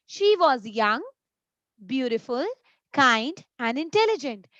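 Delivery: put-on short pause after "young" and "beautiful". Shown as a demonstration. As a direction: let each comma breathe. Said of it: "Let's see the difference now".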